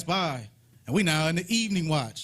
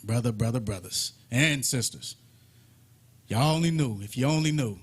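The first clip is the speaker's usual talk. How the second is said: mock pity; 6 semitones lower than usual. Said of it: "Elijah just sitting back like".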